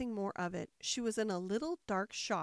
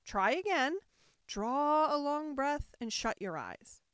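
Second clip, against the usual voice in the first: higher, coaxing queen; pitying; 5 semitones higher, 4 dB louder than usual. A narrator's reading. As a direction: coax her with pity. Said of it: "the queen said in a pitying tone".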